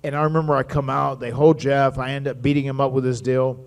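usual speaking voice

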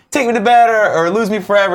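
high-pitched movie quote, put on; imitating Meg Ryan. Host quoting Goose's wife from Top Gun, high imitation. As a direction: call it out high, as a mock film heroine. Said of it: "Remember, she was like".

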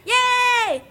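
high delighted yay; excited cheer. Acted. Hungry companion cheering the arrival of dinner, excited. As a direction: greet dinner with a squeal.

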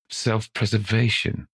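rising, disbelieving echo; incredulous. Acted. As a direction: repeat it as if absurd. Old man echoes incredulously.

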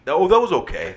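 mock lukewarm praise. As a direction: parody a half-hearted compliment. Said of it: "there's almost too many people that'll tell you".

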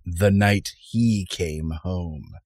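slow, ominous tagline read; horror trailer voice. Acted. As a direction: draw out each word, menacing.

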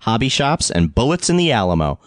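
brisk podcast episode announcement; show intro read. Acted. Host introducing the episode to listeners, announcer read.

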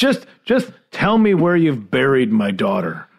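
lightly hammed-up plea for closure; mock grieving parent. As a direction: plead like a bereaved parent, half laughing. Acts bereaved parent pleading as joke.

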